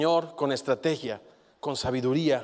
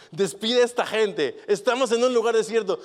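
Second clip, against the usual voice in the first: anxious disciples; 7 semitones higher, 8 dB louder than usual. Acted. Disciples voiced urging Jesus.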